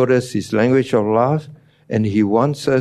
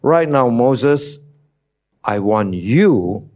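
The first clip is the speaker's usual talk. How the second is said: slow call; 2 semitones higher, slower than usual. Acted. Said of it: "did God say".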